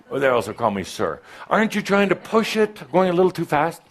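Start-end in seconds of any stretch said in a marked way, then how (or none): 1.5-3.8 high doubtful master. Retold or imitated.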